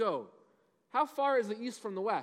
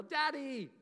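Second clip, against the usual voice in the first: imitating a child's yell; 6 semitones higher than usual. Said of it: "she'd come running to me and yell".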